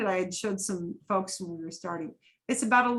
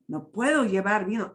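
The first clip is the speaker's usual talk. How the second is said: quicker, connected "no puedo llevar vino" with pitch movement; with intonation; 3 dB louder, faster than usual. Shown as a demonstration. Teacher corrects the droned version, using intonation. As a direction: lift PUEDO and run the words together. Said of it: "You wanna use intonation".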